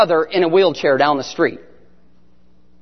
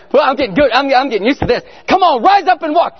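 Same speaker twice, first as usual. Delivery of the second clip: growing confidence; 6 semitones higher than usual. Retold or imitated. Cocky self-talk while practising healing.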